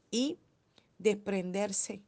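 desprenderse stretched slowly, every syllable weighed; drawn-out emphasis. Real, not acted. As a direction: lean on desprenderse, very slow. Preacher stressing letting go. (desprenderse dicho muy despacio, sílaba por sílaba)

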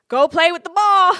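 high and loud through laughter; laughing loud tease. Real, not acted. To tech boys, telling them to go play, laughing loud.

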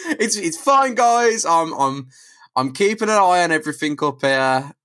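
giggling mock reassurance; laughing Spider-Man. Continuing Spider-Man impression, laughing.

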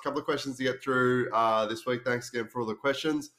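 slightly nasal from a cold; blocked-nose nasal voice. Real, not acted. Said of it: "sorry if I sound a bit nasally".

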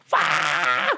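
imitated rebel yell at half volume; drawn-out mock holler. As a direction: mimic a kid's wild yell, held back. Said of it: "one of these rebel yells".

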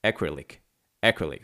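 "acrylic" slow, ACK-ri-lik, stress on first syllable; careful pronunciation. Shown as a demonstration. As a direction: spell out "acrylic" slowly for learners. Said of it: "怎么拼呢".

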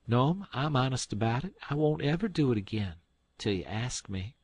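cheeky earnest promise. Acted. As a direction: promise with a sly twist.

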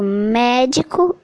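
"médico" stressed on opening MÉ; "médico" as an example of first-syllable stress; stress on antepenultimate syllable. Shown as a demonstration. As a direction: lean on the MÉ in "médico". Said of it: "é a antepenúltima".

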